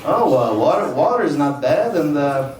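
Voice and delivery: mock German accent climbing to a high strained outburst; German accent, mild then drawn-out high panic; bad German accent. German man paying his utilities, accent rising into high outrage. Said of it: "I don't do a great German accent".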